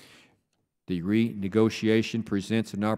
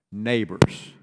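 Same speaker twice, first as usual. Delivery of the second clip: "neighbors" said louder, with a falling close; stress on neighbors; 5 dB louder than usual. Real, not acted. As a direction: lean hard on "neighbors" to make the point. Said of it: "want to emphasize the word neighbors".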